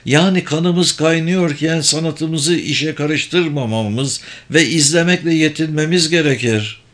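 a lightly voiced mage explaining the scheme; kendinden emin büyücü. Story figure Sabır explains scheme. (kendinden emin, açıklayan büyücü sesi)

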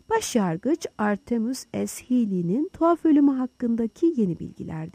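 reading aloud. A narrator's reading. Fields reading the newspaper aloud to his friends, measured read-out. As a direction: read the headline out to the room. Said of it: "yüksek sesle okumaya başladı".

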